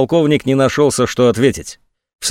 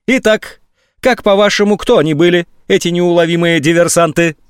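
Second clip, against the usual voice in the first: sarcastic tirade; 6 semitones higher than usual. A narrator's reading. General mocking the colonel.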